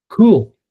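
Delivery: COOL hit high and loud; stressed syllable. Shown as a demonstration. Coach showing the tapping drill, cool stressed high and loud. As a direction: punch the single word cool, high and falling. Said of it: "strong tap on stressed syllable".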